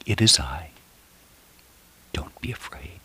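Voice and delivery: whispered, very soft and tender; reassuring whisper. Acted. The Lord reassures a troubled believer, whispered. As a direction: hush a frightened heart. The voice of Jesus in darkness.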